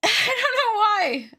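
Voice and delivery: high, loud laughing words; real giggle over forgetting her age. Real, not acted. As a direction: laugh through the line, slowed. Laughing at own age confusion.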